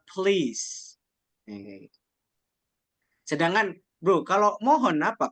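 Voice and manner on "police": "please" as puh-LEES, meaning police; PO read as PE. Shown as a demonstration. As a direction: model "please" with a short puh before lees. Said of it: "bacanya itu adalah". ("please" dibaca pe-lis, bukan po-lis)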